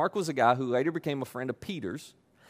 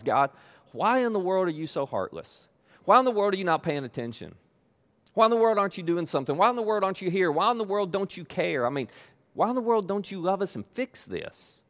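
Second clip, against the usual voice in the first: frustrated prayer; 4 semitones higher than usual. Retold or imitated. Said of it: "what you would love to say out loud is".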